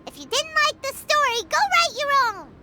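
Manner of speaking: huffy retort. Real, not acted. Paimon huffs at unscared listeners.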